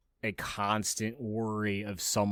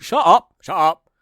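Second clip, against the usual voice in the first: sharp, high, very loud cut-off; fed-up outburst, pitch jumping up; exasperated shout; 9 semitones higher, 14 dB louder than usual. Acted. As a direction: shout them down. Cuts off the mocked tough guy.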